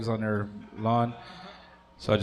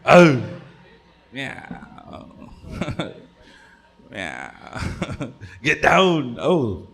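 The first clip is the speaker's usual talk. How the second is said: mock yelling at cat; 3 semitones higher, 6 dB louder, much slower than usual.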